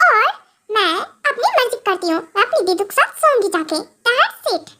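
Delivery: lightly voiced cheeky girl, mock tough; playful sassy little-girl voice; bratty childish wife. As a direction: brag like a kid playing the rebel. Wife boasts she is bad girl.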